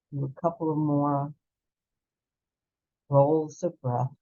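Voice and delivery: calm, unhurried breath-work guide voice; soothing meditation teacher, leading the class; guided breathing meditation. Acted. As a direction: guide them gently through each breath.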